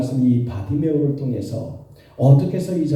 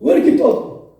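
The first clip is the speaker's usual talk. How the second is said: imitated scolding; 5 dB louder than usual. Bystanders tell the blind beggar to hush, imitated scolding. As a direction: scold like an irritated onlooker. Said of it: "막 꾸짖는 거예요".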